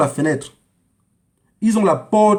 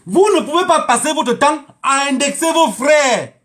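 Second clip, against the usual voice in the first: raised, slow, emphatic rebuke; indignant scolding; 6 semitones higher, slower than usual. Real, not acted. Speaker rebuking listeners for pointing at their brothers, indignant scolding. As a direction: scold them slowly, pitched high.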